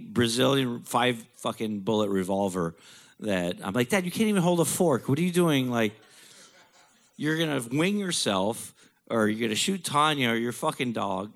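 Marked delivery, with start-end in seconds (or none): 3.9-11.3 raised, incredulous scolding of dad; exasperated scolding. Retold or imitated. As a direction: talk down your dad's bad plan. Son scolding father retold.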